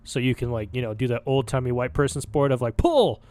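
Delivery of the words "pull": high, drawn-out shout; hammed-up sporting yell; mock shooter's call. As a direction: call out for the clay pigeon. Mimics clay-pigeon shooter calling out.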